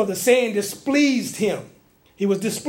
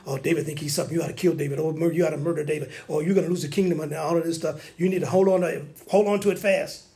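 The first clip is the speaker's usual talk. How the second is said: tempting spirit voice; 4 semitones lower, 3 dB quieter, faster than usual. Retold or imitated. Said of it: "thoughts that these spirits start giving you".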